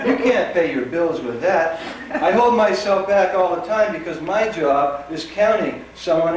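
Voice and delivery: emphatic, rhythmic spoken-word delivery; poetry reading. Acted. Poet performing a work poem for an audience, emphatic reading. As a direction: punch each phrase, letting it fall at the end.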